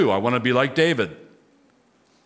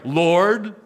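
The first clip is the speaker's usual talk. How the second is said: higher-pitched, heartfelt call to God; earnest prayer call; 6 semitones higher than usual. Shown as a demonstration. Preacher models praying to the Lord, earnest call. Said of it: "Or at least you pray".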